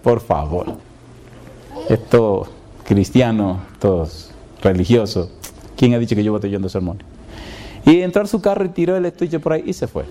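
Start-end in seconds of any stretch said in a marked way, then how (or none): 0.0-7.0 scoffing. Retold or imitated. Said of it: "como quien dice".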